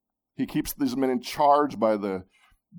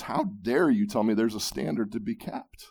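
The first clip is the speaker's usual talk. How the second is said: indignant retort. Pretend. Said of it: "his prideful heart jumps up and says".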